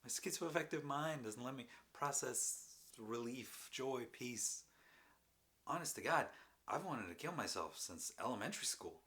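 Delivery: loud, high-pitched confession; anguished outpouring. Acted. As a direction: pour it out loudly, pitch swooping up. Anguished confession after laughing outburst.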